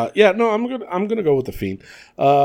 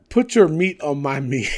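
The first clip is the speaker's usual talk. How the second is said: laughing shout. Real, not acted.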